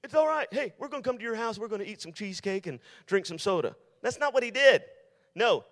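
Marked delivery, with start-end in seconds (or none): 0.0-3.8 mock friendly David. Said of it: "He says".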